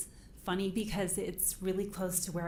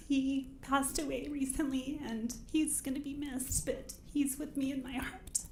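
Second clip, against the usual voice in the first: holding back tears, voice rising; choked up; 6 semitones higher than usual. Real, not acted. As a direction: voice tight with grief. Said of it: "We have tissues here if you need".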